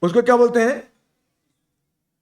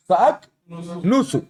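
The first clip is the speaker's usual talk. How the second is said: سَأَكْنُسُ said slowly, each vowel drawn out, ending on a clear u; slow, careful teacher model of سَأَكْنُسُ; slow model word; 5 semitones lower, slower than usual. Shown as a demonstration. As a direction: drag out سَأَكْنُسُ sound by sound for the class. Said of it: "سَأَكْنُسُ کہ سَأَكْنِسُ".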